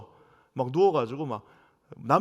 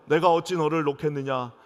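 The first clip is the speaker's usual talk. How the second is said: loud scripture reading; 3 dB louder than usual. Shown as a demonstration. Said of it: "우리 한번 다 같이 읽어볼까요".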